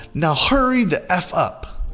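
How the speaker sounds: high, slow rude demand; lightly voiced pushy mother; entitled mom. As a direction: spell out her impatience. Entitled mom rushes clerk.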